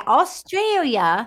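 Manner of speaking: teasing mock Australian, stretched and lifted; mock Australian accent. Host mimicking cohost's supposed accent, mock Australian. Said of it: "So you were like".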